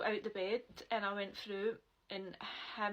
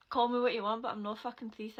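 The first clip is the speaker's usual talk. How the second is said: retold outburst; 7 dB louder than usual. Retold row over accusation.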